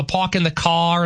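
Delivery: dropped-R Boston accent. Shown as a demonstration. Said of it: "Boston's different".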